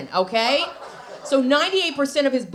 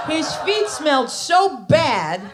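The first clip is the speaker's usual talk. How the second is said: laughing disgust; 3 semitones higher, slower than usual. Acted. Comic disgust.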